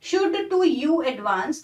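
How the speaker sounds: slow, deliberate recitation of the line; poem reading. Shown as a demonstration. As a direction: read the verse slowly, word by word. (धीमे-धीमे कविता पढ़ना)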